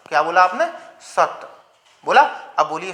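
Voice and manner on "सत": "सत" cut off on a voiceless t; voiceless final त. Shown as a demonstration. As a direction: say "सत" without adding a vowel or throat buzz. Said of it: "कंपन नहीं हो रहा".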